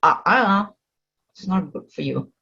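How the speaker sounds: gently caution, as the mind talking to its owner; mind's inner warning. Acted. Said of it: "the mind itself will tell you".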